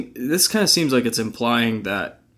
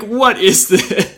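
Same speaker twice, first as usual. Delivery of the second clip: confused; 9 semitones higher, 5 dB louder, much slower than usual. Retold or imitated. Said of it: "him just looking at me as this".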